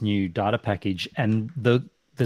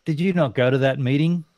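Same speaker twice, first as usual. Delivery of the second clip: incredulous and pushy; "come on, mate" disbelief; exasperated; 5 semitones higher than usual. Retold or imitated. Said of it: "I'm like".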